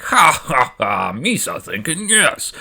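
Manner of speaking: slow, hammed-up Gungan chuckle into mock Gungan speech; lightly voiced Gungan boss, laughing then agreeing; Boss Nass voice. Gungan leader answering the queen's call, in mock Gungan voice. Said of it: "And Boss Nass is like".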